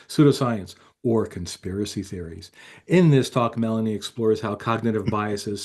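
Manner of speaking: lightly voiced promo announcer; announcer read. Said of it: "I'm gonna read it like Kyle does".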